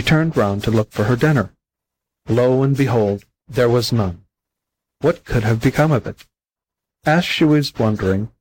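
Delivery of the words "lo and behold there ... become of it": ordinary delivery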